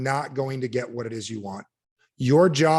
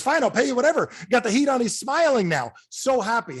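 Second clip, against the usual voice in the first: happy client; 9 semitones higher than usual. Retold or imitated. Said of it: "He goes".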